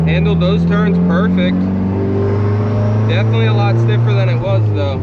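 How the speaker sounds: talking over road and wind noise; car windows down. Real, not acted. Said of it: "Sorry for any wind noise".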